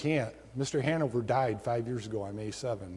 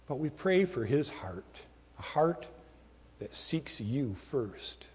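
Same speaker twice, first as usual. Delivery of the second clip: prayer. Real, not acted. Pastor leading the congregation in closing prayer, reverent. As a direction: pray humbly to the Father.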